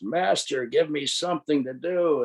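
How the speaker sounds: understated storyteller's yell; mild demon yell. Acted. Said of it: "he yells".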